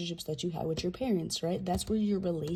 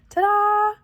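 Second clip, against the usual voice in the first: much higher, loud triumphant ta-da; a big showman's flourish; 13 semitones higher, 9 dB louder than usual. Pretend. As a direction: announce it like a magician's reveal. Triumphant reveal of a card.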